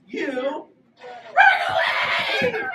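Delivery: very high, loud, slow run away; weird-voiced shout. Shown as a demonstration. Teacher shows the kids the right way, in a silly scream. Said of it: "do it in a weird voice".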